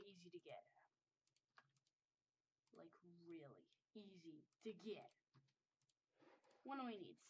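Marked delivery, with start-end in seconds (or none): 2.7-5.1 near-whispered, lower aside; very soft, whispery repeat; hushed emphasis. Real, not acted. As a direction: drop to a whisper to underline it.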